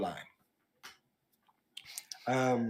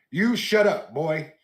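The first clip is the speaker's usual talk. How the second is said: The Rock; 3 semitones higher, 6 dB louder, slower than usual. Retold or imitated. The Rock silencing Cody mid-promo, mock loud snap. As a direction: bark it out like a wrestling heel cutting someone off. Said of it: "The Rock looks at Cody and says".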